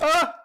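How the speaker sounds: sharp, high, loud startled cry; startled yelp. Acted. Woman startled by a man hovering in the doorway, sharp loud yelp. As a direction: jump at a shape looming in the doorway.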